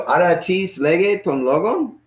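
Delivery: slow, with LOGON climbing high at the end; question intonation. Shown as a demonstration. Teacher modelling the Greek question for a student, question intonation. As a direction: lift LOGON right up as a question. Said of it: "like a question".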